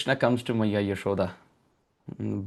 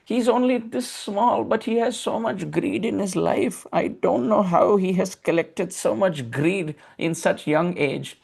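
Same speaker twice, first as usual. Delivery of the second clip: put-on child Krishna; 6 semitones higher, slower than usual. Child Krishna pleading with mother.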